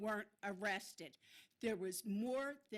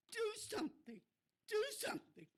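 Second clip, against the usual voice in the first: pleading demand; 9 semitones higher, faster than usual. Real, not acted. Demanding action from council.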